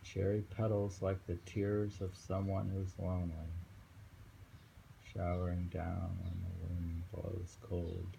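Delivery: just read it straight; plain poem reading. Acted. Rereads the poem.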